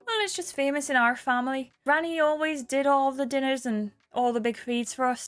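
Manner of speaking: Irish storytelling lilt; Kelly. Acted. Kelly talks about Granddad's signature cake, in an Irish accent. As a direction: tell the family tale in a Cork accent.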